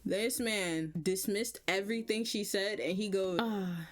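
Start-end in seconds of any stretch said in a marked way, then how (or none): 3.4-3.9 slow dreamy sigh of admiration, imitated; mock smitten. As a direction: draw it out like someone besotted. Imitates the same besotted man.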